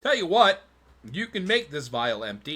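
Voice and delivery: loud, high dealer's pitch; bright merchant voice. Acted. Merchant offering a deal to the player, loud and high. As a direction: pitch the offer like an eager trader. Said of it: "He goes".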